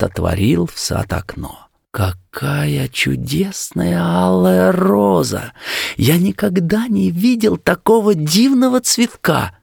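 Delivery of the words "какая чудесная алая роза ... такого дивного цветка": high, wondering exclamation; delighted exclamation. A narrator's reading. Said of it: "воскликнул он".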